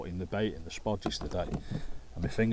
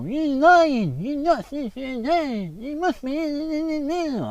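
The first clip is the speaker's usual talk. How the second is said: much higher, louder, slow stern doctor; Doctor Now impression; 9 dB louder, much slower than usual. Doctor calling out a patient's lie, high slow mimicry. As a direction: drag it out, high and disbelieving. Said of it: "And he'll go".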